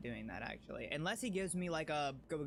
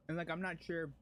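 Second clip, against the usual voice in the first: talking while chewing; mouth full; 3 semitones higher than usual. Real, not acted. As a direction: speak around a mouthful of food. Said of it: "I don't wanna talk with my mouth full".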